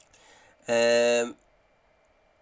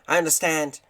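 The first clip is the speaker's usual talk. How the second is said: badly faked, higher voice; terrible Graham; 5 semitones higher, 3 dB louder than usual. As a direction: put on a poor impression, pitched up. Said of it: "This is my terrible, terrible Graham impression".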